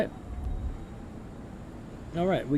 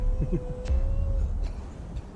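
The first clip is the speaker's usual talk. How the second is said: high, breathy laugh; soft high-pitched chuckle; 6 dB quieter than usual. Real, not acted. Streamer amused after abandoning dogs and Riss, laughing. Amused at own joke about sleeping.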